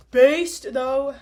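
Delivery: loud, high burst of approval; excited. Real, not acted. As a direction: blurt it out, hyped. Breaks off reading to comment.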